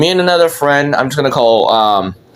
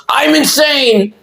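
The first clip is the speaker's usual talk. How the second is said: high, drawn-out mock yell; yelled outburst; 12 semitones higher, slower than usual. Student blurting out in music class, yelling. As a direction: imitate a wild outburst, pitched way up. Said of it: "I just yelled".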